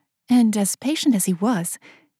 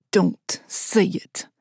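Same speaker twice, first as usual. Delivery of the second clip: whispered warning; much slower than usual. A narrator's reading. He warns her to stop.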